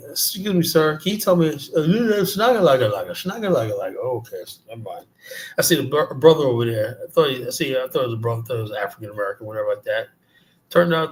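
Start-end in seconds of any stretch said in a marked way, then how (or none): 0.1-5.1 mock lost traveler. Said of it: "all of a sudden I was like".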